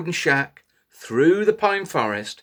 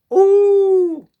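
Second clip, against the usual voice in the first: long high wolf howl; 10 dB louder than usual. Shown as a demonstration. Storyteller leads children in a loud high wolf howl. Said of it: "And again".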